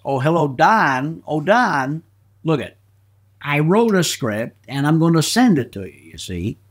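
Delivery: lightly imitated comedian greeting his announcer; Jack Benny impression. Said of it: "dueling Jack Bennies".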